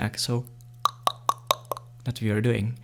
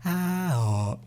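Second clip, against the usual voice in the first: higher, lighter vowel demo; before dropping the throat; 6 semitones higher than usual. Shown as a demonstration. Teacher demoing the vowels before dropping the throat, higher. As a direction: sing out ah, oh with an open, high throat. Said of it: "And now we go".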